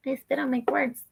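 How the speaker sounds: whispered aside, embarrassed. Real, not acted. Reader apologizing to viewers in a whisper. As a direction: breathe it out under your breath. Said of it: "I just spit all over".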